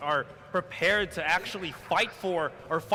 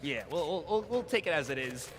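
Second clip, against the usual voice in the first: nerd voice; 4 semitones lower, 4 dB quieter than usual. Acted. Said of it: "It's my nerd voice".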